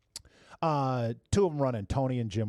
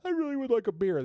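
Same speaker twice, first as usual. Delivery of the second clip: mock polite request; 11 semitones higher than usual. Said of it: "you wanna".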